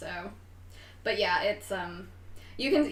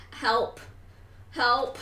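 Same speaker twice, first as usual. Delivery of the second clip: put-on louder, a young voice crying out for help; calling for help; 3 semitones higher, 6 dB louder than usual. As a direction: shout for help like a trapped kid. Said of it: "is saying".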